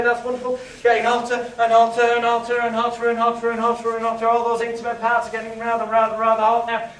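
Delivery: hurried, building hypnotist patter; rising urgency. Acted. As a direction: push the heat up, urging them on. Hypnotist heating up the scene.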